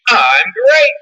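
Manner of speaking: lighter cartoon mascot catchphrase; Tony the Tiger. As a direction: imitate someone playing the cereal tiger. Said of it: "they gotta play Tony the Tiger".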